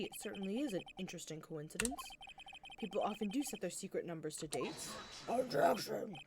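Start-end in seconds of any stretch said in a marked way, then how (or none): 5.3-6.1 sharp courtroom objection; objection shout. Acted. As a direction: call it out firmly.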